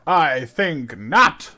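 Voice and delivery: slow, drawn-out smug line; dramatic pronouncement. Acted. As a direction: savor it like a sleuth.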